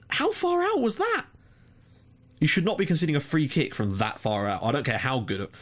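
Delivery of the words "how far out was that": high, slow, disbelieving; stunned rant at a long-range goal; incredulous. Real, not acted. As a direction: drag it out in outrage, pitched way up. Ranting about conceded free kick.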